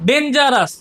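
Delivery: "ডেঞ্জারাস" split into three beats; syllable by syllable. Shown as a demonstration. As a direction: say "ডেঞ্জারাস" as den-ja-ras, each syllable set apart. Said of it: "তিনটে syllable আছে". ("ডেঞ্জারাস" শব্দটা তিন সিলেবলে ভেঙে)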